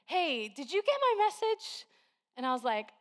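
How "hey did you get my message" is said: higher, gentle friend asking; sweet friend. Retold or imitated. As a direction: kindly ask as the sweet friend. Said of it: "in the kindest way".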